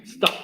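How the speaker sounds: "Stop" starting straight on the S; no E before stop. Shown as a demonstration. Teacher insisting there is no E in this word, stop without a leading E. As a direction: say "Stop" with no E in front, one syllable. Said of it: "No hay ninguna E".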